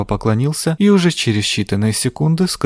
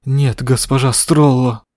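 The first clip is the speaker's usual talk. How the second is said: groaning; slower than usual. Acted. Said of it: "простонал он".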